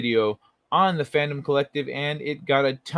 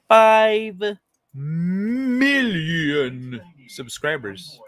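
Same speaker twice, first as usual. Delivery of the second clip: amazed; 4 semitones higher, 5 dB louder, much slower than usual. Real, not acted. Amazed at subscriber count.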